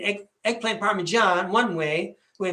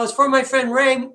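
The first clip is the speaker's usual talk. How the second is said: insistent retold line; 5 semitones higher, 5 dB louder than usual. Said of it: "He's all".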